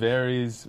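"Varys" said as VAIR-eez; first pronunciation variant. Shown as a demonstration. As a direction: say "Varys" with AIR and a long EE ending. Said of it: "chatter about the pronunciation".

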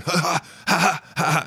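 high sharp ha ha ha grunts; grunting with each punch. Retold or imitated. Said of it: "I started going".

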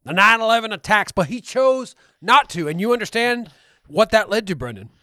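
a lightly voiced conspiracy radio host, insistent and pushy; lightly voiced ranting conspiracy host; conspiracy ranter. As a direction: rant like a paranoid talk show host. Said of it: "you're changing shape".

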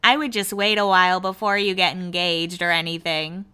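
lightly mimicked coworker giving advice; a hint of mimicry; imitating her talk. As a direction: put on her noncommittal advice voice. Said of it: "that's kinda how she talks".

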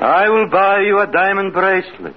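entranced echo. Acted. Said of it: "Now repeat after me".

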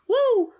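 high, drawn-out whoop; overwhelmed "woo". Real, not acted. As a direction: let out a long, high woo. Overwhelmed by own accent trouble.

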